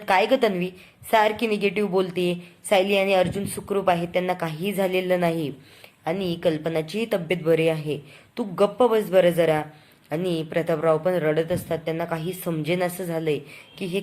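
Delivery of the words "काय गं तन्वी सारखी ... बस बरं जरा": half-acted irritated telling-off; father-in-law snapping at a negative girl; mild retold anger. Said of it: "Prataprao खूप मोठ्याने चिडतात".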